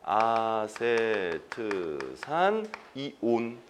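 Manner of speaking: "아세트산 이온" very slowly, syllable by syllable; slow memorization demo. Shown as a demonstration. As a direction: stretch out each syllable of "아세트산", pause, then "이온", low and soft. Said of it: "통째로 외우셔야 돼요".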